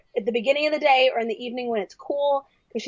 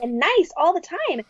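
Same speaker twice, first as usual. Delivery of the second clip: higher-pitched put-on niceness; lightly mocking sweetness; mock pleasant; 5 semitones higher than usual. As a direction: finish the super-nice act. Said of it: "really super pleasant".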